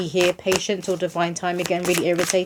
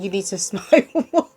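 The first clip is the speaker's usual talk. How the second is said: chuckling piece of advice; amused nudge with a giggle; laughing. Real, not acted. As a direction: break into a light laugh mid-phrase. Laughs while urging a smile.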